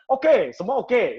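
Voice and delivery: high, loud, drawn-out okay; optimistic yes. Acted. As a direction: agree eagerly to the task. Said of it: "Selalu optimis".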